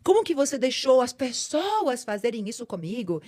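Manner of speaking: accusing plea that climbs at the end; reproach to God. Retold or imitated. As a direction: demand answers from God. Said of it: "Por que que eu não posso?".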